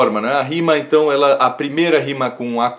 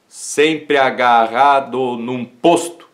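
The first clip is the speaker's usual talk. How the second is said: "sempre agarrado num posto" very slow, syllable by syllable; syllable-by-syllable scansion; much slower than usual. Shown as a demonstration. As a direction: scan "sempre agarrado num posto" slowly, marking each poetic syllable. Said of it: "Sete sílabas". ("sempre agarrado num posto" escandido devagar, sílaba por sílaba)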